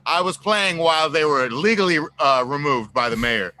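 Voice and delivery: laughing protest. Real, not acted. Musician jokingly defends himself to the host, laughing protest. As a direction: laugh while pleading your case.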